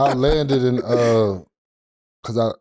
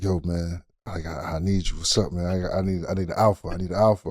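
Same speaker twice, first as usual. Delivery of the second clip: Kobe's voice, mocked; 5 semitones lower, 6 dB quieter than usual. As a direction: lower and softer, mild Kobe imitation. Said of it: "He's like".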